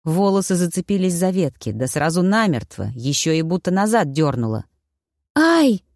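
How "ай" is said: startled cry. A narrator's reading. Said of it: "вырвалось у меня".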